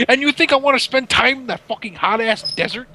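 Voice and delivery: going off. Retold or imitated. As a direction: rant indignantly as someone else. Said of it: "he's going off".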